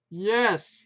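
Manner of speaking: high, loud shout. A narrator's reading. Putz shouting at wife over barking, loud. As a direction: bellow the question. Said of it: "at the top of his lungs".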